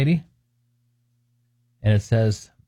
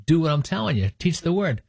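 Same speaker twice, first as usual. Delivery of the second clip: lightly acted insistent parent, higher pitch; mock exasperated correction; 4 semitones higher than usual. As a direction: correct the child, raised pitch, mildly exasperated. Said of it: "And I'm like".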